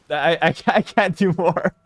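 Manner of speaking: breaking into laughter mid-sentence; real giggling surrender; laughing. Real, not acted. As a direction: stammer and crack up, giving up. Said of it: "Now I'm just laughing".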